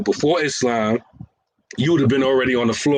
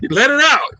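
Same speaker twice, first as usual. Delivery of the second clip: cheering himself on; 13 semitones higher, 5 dB louder than usual. Acted. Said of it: "Yeah, there go Abdul Mujib".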